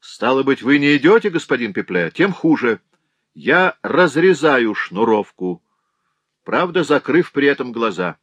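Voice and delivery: high, loud threatening call; fatal voice. A narrator's reading. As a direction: threaten with mock gravity. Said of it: "снова послышался роковой голос".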